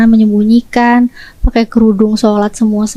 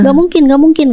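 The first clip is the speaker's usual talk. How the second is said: imitated incredulous denial, raised pitch; lightly acted sister in denial, higher; retold disbelief; 4 semitones higher than usual. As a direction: brush it off in mock disbelief.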